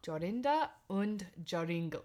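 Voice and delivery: attempted German accent on the names. Shown as a demonstration. Host trying the fairy-tale names, amateur German accent. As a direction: have a tentative go at a German accent. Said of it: "say them with a German accent".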